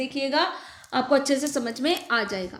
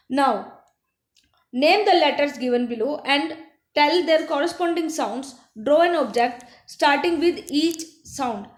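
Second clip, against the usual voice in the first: very slow, deliberate English instruction; slow teacher read; much slower than usual. Acted. Teacher reading worksheet instructions to children, very slow. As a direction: read each word slowly for the class.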